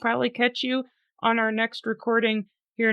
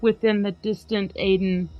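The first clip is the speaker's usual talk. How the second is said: dramatic poem reading. Acted. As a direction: read it like a gothic poem by candlelight. Reads poem aloud.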